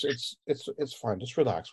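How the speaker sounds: soft, hushed reassurance; quiet calming voice; calming demeanor. Acted. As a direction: gently soothe someone who is upset. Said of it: "he's got a very calming demeanor".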